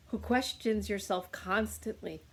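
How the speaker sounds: yawning while talking; words stretched by a yawn. Real, not acted. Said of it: "I yawned and burped to clear".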